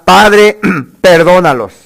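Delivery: clamor de Jesús. Acted. Jesús en la cruz clamando.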